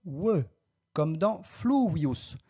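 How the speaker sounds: "fluvius" with V said as English W; slow "fluvius", the V rounded to a W; classical W sound. Shown as a demonstration. Teacher showing students Latin V, classical W sound in "fluvius". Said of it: "la prononciation correcte, c'est fluvius".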